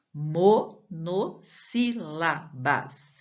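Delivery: Monossílabas as MO, NO, SSÍ, LA, BAS, evenly spaced; syllable by syllable. Shown as a demonstration. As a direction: spell out Monossílabas slowly in syllables. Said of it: "Como é que eu chamo?".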